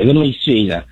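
lightly done Italian-American mobster voice; a hint of a Jersey mob boss talking food; New Jersey Italian mobster. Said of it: "if you wanna try out for the impression job".

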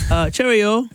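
put-on a light, amateur British accent on a playful sign-off; mock British accent. Co-host signs off in a mock British accent. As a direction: say it like a cheery Brit, lightly put on. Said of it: "I'm trying to practice my British accent".

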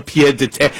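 lightly affected French accent; snooty French accent. Shown as a demonstration. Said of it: "say it with that snooty accent".

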